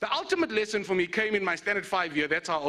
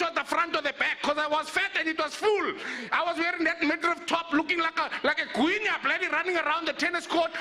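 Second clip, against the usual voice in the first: excited building; 5 semitones higher than usual. Real, not acted. Climax of tennis story, pitch up.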